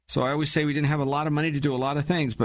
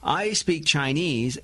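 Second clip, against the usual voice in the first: drawn-out, slow mock realization; exaggeratedly slow imagined reply; mock slow comprehension; slower than usual. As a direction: slowly voice a foreigner who supposedly now understands. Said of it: "as if they go".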